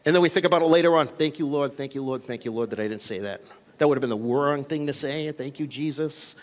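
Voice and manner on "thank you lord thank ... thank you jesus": soft, low murmured thanks to God; relieved hushed thanks. Acted. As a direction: breathe it out in quiet relief. Relieved prayer after biting tongue.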